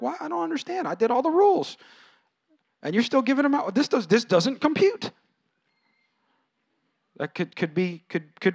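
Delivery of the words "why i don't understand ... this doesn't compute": put-on confused older brother. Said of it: "older brother going like".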